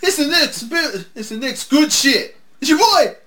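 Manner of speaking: slow, high, loud hype yell; excited shouting. Real, not acted. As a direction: holler it high, drawing the words out. Excited cheering for a favourite.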